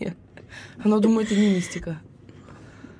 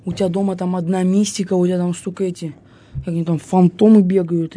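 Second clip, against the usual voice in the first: fortune teller; 5 dB louder than usual. Acted. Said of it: "Представится гадалка и скажет".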